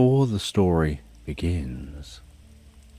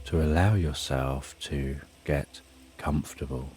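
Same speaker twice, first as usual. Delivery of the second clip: guided meditation. Acted. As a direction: lull the listener down gently. Guided sleep meditation countdown.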